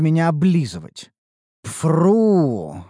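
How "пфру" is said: horse-like snort through the lips; loud snort. Acted. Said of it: "Раздалось шумное фырканье".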